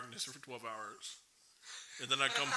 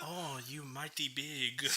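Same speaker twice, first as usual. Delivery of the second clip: terrible mock Asian accent, slow; a bad, laughing Asian accent; much slower than usual. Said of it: "That was a terrible Asian accent".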